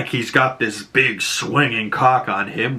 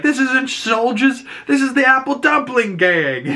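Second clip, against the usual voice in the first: disgusted Murn; 14 semitones higher than usual. Retold or imitated. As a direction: drag it out with contempt.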